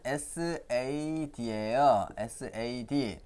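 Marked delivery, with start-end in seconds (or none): 2.2-3.2 에스에이디 spelled slowly letter by letter; slow letter-by-letter spelling. Shown as a demonstration. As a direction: read 에스에이디 out slowly, each letter clear. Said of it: "읽어보면 어떻게".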